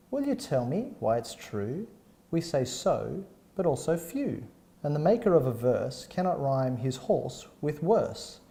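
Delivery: measured recital of a comic verse; poem reading. Acted. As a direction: read it out like reciting a poem to listeners. Reads poem aloud.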